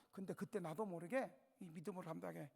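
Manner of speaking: ordinary talk, nothing marked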